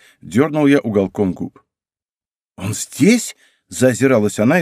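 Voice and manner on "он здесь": mock fright. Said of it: "изображая испуг".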